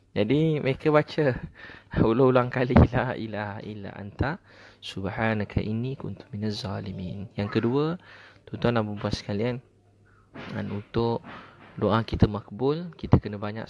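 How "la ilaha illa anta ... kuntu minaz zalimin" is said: slow prayer recitation. Retold or imitated. Ustaz voicing the oppressed repeating their doa, slow and hushed.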